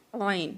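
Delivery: عین squeezed from mid-throat; Arabic ain. Shown as a demonstration. Teacher models the throat sound of عین. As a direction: tight throat catch on عین. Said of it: "وسطی حلق سے ہی ادا ہوتی ہے".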